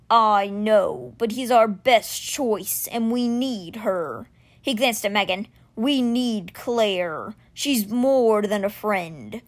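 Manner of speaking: slow, grave creature voice. Acted. Stone guardian admitting Claire matters to him, slow. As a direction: weigh each word.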